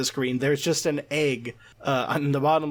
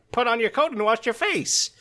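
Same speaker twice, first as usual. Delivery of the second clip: high-pitched, theatrical character voice; Papyrus; 8 semitones higher than usual. Acted. Podcaster quoting how Papyrus would talk, high character impression. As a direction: proclaim it in a put-on, high voice. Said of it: "I can imagine Papyrus saying".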